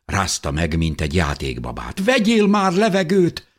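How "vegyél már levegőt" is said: high, loud, frantic command; desperate shout. A narrator's reading. Mother shakes her unconscious little girl, shouting desperately. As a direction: cry it out at full urgency.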